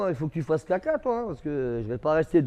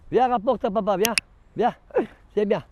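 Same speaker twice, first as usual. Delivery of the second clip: higher pet talk; coaxing the dog; 5 semitones higher than usual. Real, not acted. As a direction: sweet-talk the dog into coming.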